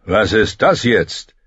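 slow, puzzled man's voice; a lightly voiced cook wondering aloud; fat man. (langsam verwunderter dicker Mann)

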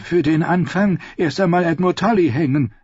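urging. Acted. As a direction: urge them on, eager for a hanging. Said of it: "drängte Lord Ammon Fry".

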